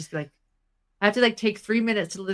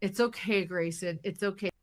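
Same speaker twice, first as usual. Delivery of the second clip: soothing; 6 dB quieter than usual. Retold or imitated. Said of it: "I have to look at her and be like".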